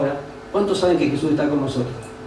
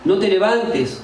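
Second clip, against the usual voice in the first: higher-pitched voice of discouragement; acted naysayer, pitched up; discouraging voice; 3 semitones higher, slower than usual. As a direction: mimic someone talking you out of it. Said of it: "que te van a decir".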